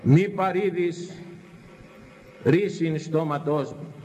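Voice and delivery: slow, measured recitation; solemn scripture reading. Acted. Preacher reading David's words to the faithful, slow and solemn. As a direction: intone the old verse slowly.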